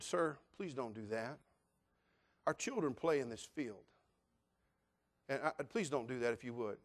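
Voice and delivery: soft, courteous plea; polite request. Retold or imitated. Pastor politely asking the dog owner to stop, courteous and soft. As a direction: ask him kindly, holding back. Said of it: "This is exactly how I said it".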